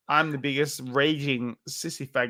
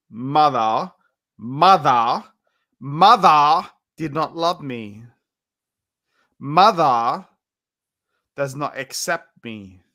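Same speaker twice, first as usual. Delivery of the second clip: drawn-out, louder, theatrical grief over mother; mock lament; 5 dB louder, slower than usual. Drunk streamer hamming up being unloved by mother, mock lament. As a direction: wail "mother" like a tragic soap heroine.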